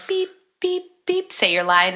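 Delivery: mock censor beeps. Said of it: "with the beeps".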